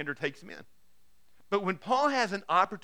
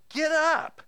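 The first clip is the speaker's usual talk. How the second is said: urgent command; 11 semitones higher, 8 dB louder than usual. Acted. Ananias urges Paul.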